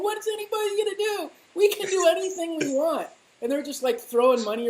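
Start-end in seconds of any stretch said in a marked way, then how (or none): 0.0-3.1 higher-pitched mock gloating; gloating insiders. Cocktail party elites laughing at voters, mock gloating. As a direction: crow it like an untouchable party guest. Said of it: "they're too laughing".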